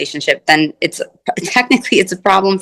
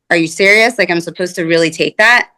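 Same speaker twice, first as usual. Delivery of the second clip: incredulous. Retold or imitated. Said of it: "looks at me like this".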